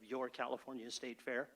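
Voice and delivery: Your lightly leaned on, the rest of California State Fair plain; stress on YOUR. Shown as a demonstration. CEO telling the board whose fair it is, stress on Your. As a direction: give the word Your a small push. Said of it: "and I stress the word Your California State Fair".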